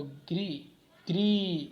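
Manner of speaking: "ग्री" repeated with a long held vowel; stressed ग्री. Shown as a demonstration. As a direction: stretch "ग्री" as the stressed syllable. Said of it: "तो ये stress है". ("ग्री" को खींचकर बल देना)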